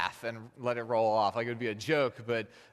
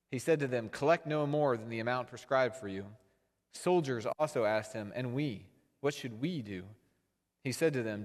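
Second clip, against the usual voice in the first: measured, slightly raised reading of scripture. Acted. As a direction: read the passage to the congregation. Reads scripture aloud.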